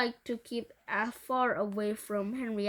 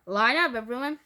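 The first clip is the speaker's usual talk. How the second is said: calling out; 8 dB louder than usual. Acted. Teacher ordering class.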